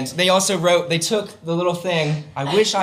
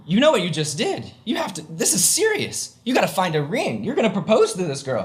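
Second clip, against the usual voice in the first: higher-pitched mock-serious urging; urgent boss; 3 semitones higher than usual. Boss tells him to find a ring, urgent. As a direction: press him like an insistent boss.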